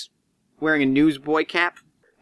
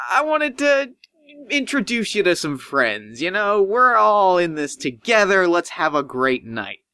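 dismissive Cook; 5 semitones higher than usual. Acted. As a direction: brush it off in a high fussy voice. Cook invites him inside.

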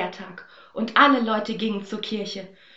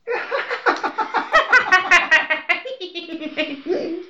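high shrill-free mocking cackle; mocking laugh; 9 semitones higher, 6 dB louder than usual. Stepmother and sister mocking Aschenbrödel, laughing. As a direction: laugh down at her foolishness.

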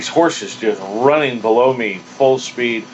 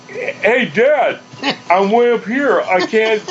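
raised, worried call from high up; a boy stuck thirty feet up calling to his dad; scared kid calling down; 7 semitones higher, slower than usual. Retold or imitated. Kid calls down to dad, mildly nervous. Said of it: "I'm like".

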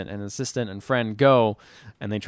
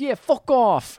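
high, drawn-out mock American accent; put-on American accent; 12 semitones higher, much slower than usual. Girlfriend dismissing the producer's tour rule, exaggerated American accent. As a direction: do a hammed-up American accent, pitched high and slow. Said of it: "It's my American accent".

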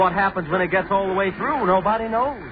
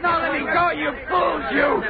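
frightened shout, pitch up, begging to be let go; panicked shouting; 4 semitones higher than usual. Acted. Man dragged by the mob shouts in panic. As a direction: scream at the mob to let you go. Victim dragged toward the hole.

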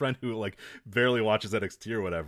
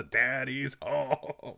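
slow, drawn-out mock promo line; lightly imitated promo catchphrase; quoting the promo; 4 dB quieter, much slower than usual. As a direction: stretch it out like the wrestler's catchphrase. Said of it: "his promo was a".

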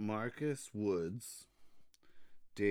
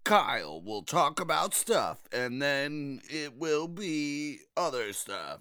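Dragon Ball announcer voice. Pretend. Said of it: "do your Dragon Ball voice".

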